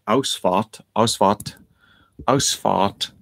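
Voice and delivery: Ausfahrt said as OWS-fart; German word Ausfahrt. Shown as a demonstration. Explaining German for exit, Ausfahrt as OWS-fart. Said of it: "which is German for exit".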